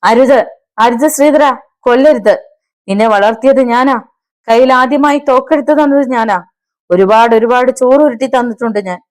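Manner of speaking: high-pitched, desperate begging; loud wailing plea. A narrator's reading. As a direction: beg the gunman for your life. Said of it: "Thampi ഉറക്കെ നിലവിളിച്ചു".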